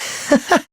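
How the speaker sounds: short voiceless gloating chuckle; villain chuckle. Acted. Villain amused by Takumi's breakdown, gloating chuckle. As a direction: let out a breathy, amused snicker. Villain laughs at own announcement.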